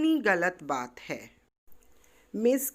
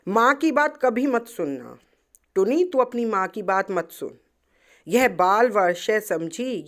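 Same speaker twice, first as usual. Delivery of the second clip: put-on angry child; 5 dB louder than usual. तुलतुल को बहुत गुस्सा आया.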